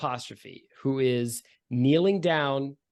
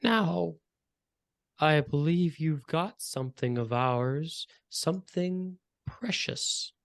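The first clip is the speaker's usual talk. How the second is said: thin querulous villain voice, pitch climbing at the end; drawn-out, high and querulous, savoring the last words; 3 semitones higher than usual. Acted. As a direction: play a querulous pale villain, voice lifting high. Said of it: "say in a high-pitched, querulous voice".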